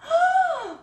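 loud, high-pitched voiced gasp; astonished gasp. Real, not acted. Vlogger discovering a gift inside the letter, astonished gasp. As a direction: suck in air sharply in delighted shock.

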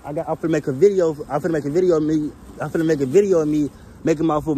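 stumbling over repeated words; restarting the phrase, tripping over it; stuttering. Real, not acted. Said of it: "My bad, I'm stuttering".

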